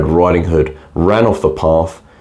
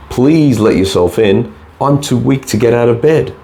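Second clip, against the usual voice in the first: higher, weak granny voice; frail old voice; 6 semitones higher than usual. Acted. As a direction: call out as a weak old woman. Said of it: "frail old voice".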